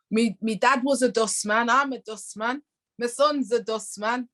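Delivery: lightly put-on Yorkshire dustman accent; proud working dustman, attempted Yorkshire accent; mock Yorkshire dustman. Dustman boasting of a family of dustmen, mock Yorkshire accent. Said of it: "I'm not saying all dustmen speak like that".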